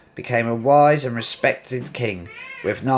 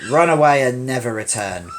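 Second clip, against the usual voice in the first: shout; 3 dB louder than usual. Acted. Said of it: "replied Simba".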